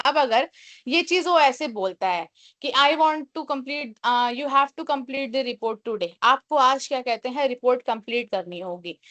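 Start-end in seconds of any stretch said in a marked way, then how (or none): 2.7-6.1 a mild, demonstrated bossy order, slow; understated harsh boss demand. Shown as a demonstration. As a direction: play the manager half-heartedly commanding. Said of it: "harsh tone हो जाएगी".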